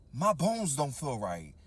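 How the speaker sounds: slow, low and ominous; slow, uneasy low voice; uneasy realization. Retold or imitated. Retold uneasy realization over drinks.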